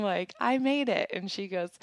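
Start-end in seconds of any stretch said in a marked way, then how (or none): 0.4-1.1 high, proud reenacted announcement; bursting to tell, pitched up; excited reveal. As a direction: relive breaking the big news. Acting out proud reveal to stranger.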